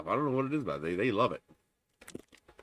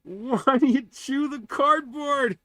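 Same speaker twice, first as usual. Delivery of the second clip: high, slow pet-talk voice; talking to a cat; 5 dB louder, much slower than usual. Real, not acted. Scolding cat chewing cardboard.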